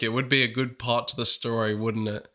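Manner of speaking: speaking with a sick voice; talking through a cold. Real, not acted. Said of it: "I got a little bit of a sick voice".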